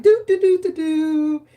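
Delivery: high, loud, hammed-up whimper through the syllables; wailing mock sob. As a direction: blubber it like an overdramatic child. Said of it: "I was like".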